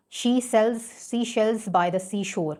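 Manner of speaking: slow, leaning on every s sound; a careful tongue-twister read; alliteration demo. Shown as a demonstration. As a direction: draw out the hissing s in She sells seashells. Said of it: "देखें एस का sound कितना ज़्यादा".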